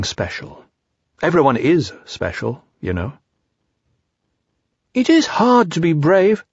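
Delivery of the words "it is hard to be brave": sniffing Piglet. A narrator's reading. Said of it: "sniffing slightly".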